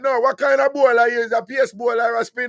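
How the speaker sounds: high, loud teasing question; high loud radio banter; excited shout. Real, not acted. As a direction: call it out, amazed. Host reacts loudly to caller.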